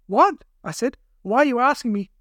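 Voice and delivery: incredulous, voice leaping up; bewildered captive. A narrator's reading. Captive to his quizzing kidnappers, bewildered.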